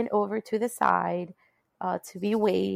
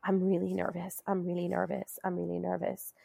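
nervous, fading; 6 dB quieter than usual. Retold or imitated. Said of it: "telling the nurse".

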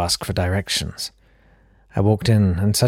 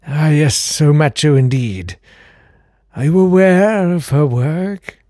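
put-on very high, airy old gentleman; fluting count voice; 7 semitones higher, 5 dB louder, slower than usual. Old count answering the door, very high fluting voice. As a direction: pipe up like a fussy old aristocrat.

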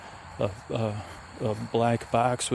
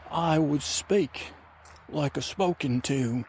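lightly voiced rambling adventurer; a hint of a folksy oddball explaining himself; Kiwi Shavers character; 4 semitones higher than usual. Adventurer explaining to a ranger, lightly put-on voice.

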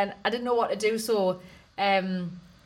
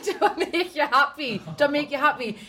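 insistent repeat; 5 semitones higher than usual. Retold or imitated. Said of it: "And I said".

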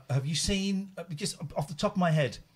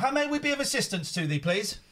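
high, posh and formal; posh accent; 6 semitones higher than usual. Shown as a demonstration. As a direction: put on a posh English voice. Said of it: "he's saying thee like a posh person".

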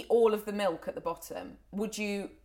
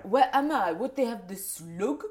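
lightly put-on French accent. Co-host joins in as French girl, French accent. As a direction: echo the lost French visitor. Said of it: "really chic French girl".

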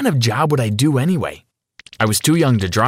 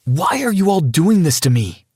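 whining. Acted. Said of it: "I whined".

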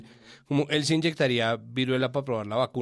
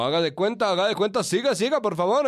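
hyped fairground barker; 5 semitones higher than usual. Pretend. Pregonero invitando a la tienda.

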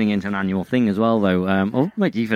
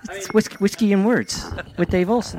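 high-pitched mock podcast intro; Dave Olson impression; 9 semitones higher than usual. Shown as a demonstration. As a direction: exaggerate your co-host's intro, voice way up. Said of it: "I do an impression of you".

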